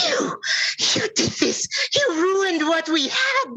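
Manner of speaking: high-pitched, strained villainess fury; enraged troll. Acted. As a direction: hurl a furious high accusation. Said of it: "her face full of anger".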